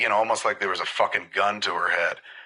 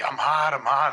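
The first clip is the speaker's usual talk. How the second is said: higher-pitched mock distress; retold big reaction; 6 semitones higher than usual. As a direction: imitate someone suddenly overheating, without shouting. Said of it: "had this, like, big reaction".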